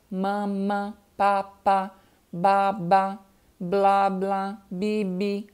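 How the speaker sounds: put-on baby-babble pairs, "mama, papa, baba", each syllable doubled evenly; demonstrating syllable repetition, pair by pair; repeated syllables. Shown as a demonstration. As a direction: chant out doubled syllables in a level tone. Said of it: "repetição de sílaba".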